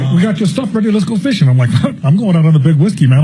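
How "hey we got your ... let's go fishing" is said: imitating the boatman. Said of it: "He said".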